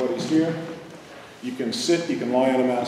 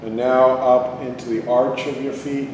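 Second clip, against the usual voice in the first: calm, unhurried meditation guide; guided meditation; 4 dB quieter than usual. Real, not acted. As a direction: lead them inward with long pauses. Leads a body-scan meditation.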